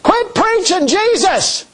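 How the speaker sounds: high, slow sneering quote; mocking the persecutors. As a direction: parody the enemies' demand. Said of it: "They over there said".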